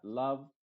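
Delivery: "love" said with short a sound; love rhymes with glove; not long o. Shown as a demonstration. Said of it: "no se dice love".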